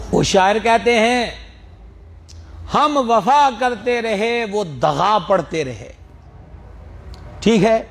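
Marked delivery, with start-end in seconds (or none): 2.7-5.9 poetry recital. Shown as a demonstration. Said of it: "شاعری والی مثال".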